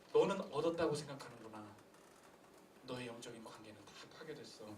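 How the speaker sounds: low, sinking to very soft; hushed grave verdict. Acted. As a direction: deliver a sobering verdict, voice dropping away. Voices a grave verdict on sinner.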